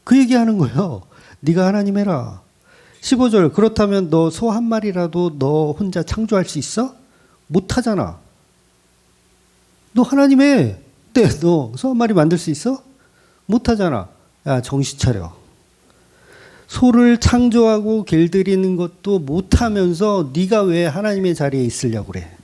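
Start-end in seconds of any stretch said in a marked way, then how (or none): 1.4-2.4 mildly acted taunt; sharp sarcastic rebuke. God challenging Job, mildly sarcastic and sharp. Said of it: "하나님은 욥에게 막 쏘아붙이는 거야". 3.5-22.3 acted rebuke with challenging questions; sharp scolding. God dressing Job down, sharp and scornful. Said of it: "하나님은 욥에게 막 쏘아붙이는 거야".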